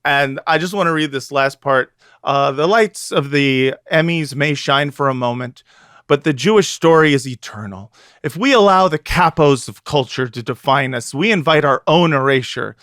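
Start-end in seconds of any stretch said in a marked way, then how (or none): 2.5-12.8 grave, solemn reading of a closing line; dramatic reading. Acted. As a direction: read it like a rousing editorial finale. Reads article's closing aloud.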